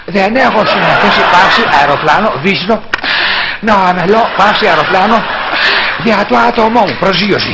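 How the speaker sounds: president impression with tongue smacks; mock politician with smacks and breaths; smacking and pauses. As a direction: smack the lips between pauses. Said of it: "Ας βάλουμε και το στοιχείο αυτό".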